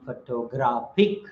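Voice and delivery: photographic with the third syllable stressed; stress moved to GRAPH. Shown as a demonstration. Teacher showing how stress changes, GRAPH stressed in photographic. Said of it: "this is how the stress also changes".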